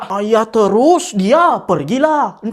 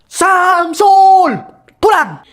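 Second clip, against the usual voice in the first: put-on loud, higher yell at the boy; angry yell; 5 semitones higher, 4 dB louder, much slower than usual. Parent yelling at the son found in the bushes. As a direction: shout his name to scold him.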